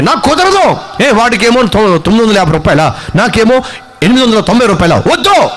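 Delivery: acted tantrum with high-pitched refusals; indignant child's protest. Younger son to parents about prices, indignant protest. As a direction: argue like the cheated younger child.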